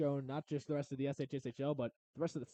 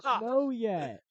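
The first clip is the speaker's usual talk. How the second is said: laughing; 7 semitones higher, 7 dB louder, much slower than usual. Real, not acted. Laughing while teasing pope guest.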